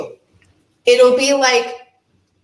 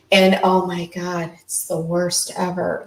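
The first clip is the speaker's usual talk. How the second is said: mock newscaster drama; 3 semitones lower than usual. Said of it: "like creating a character in a scene".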